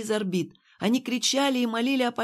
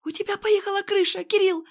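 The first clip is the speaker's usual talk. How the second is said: high, louder frightened outburst; frightened blurt; 13 semitones higher, 4 dB louder than usual. A narrator's reading. Irene to Kirill, blurting in high fright. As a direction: blurt it out in fear. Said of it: "с испугом выпалила Ирен".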